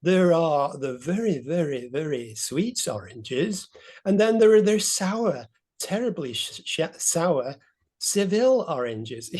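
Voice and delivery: drawn-out, lightly mimicked descriptive voice; imitated presenter voice. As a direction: mimic someone savouring each slow description. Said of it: "imitating the voice and doing".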